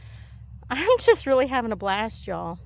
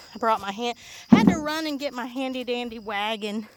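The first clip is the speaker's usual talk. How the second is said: out of breath. Real, not acted. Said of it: "That's why I'm out of breath".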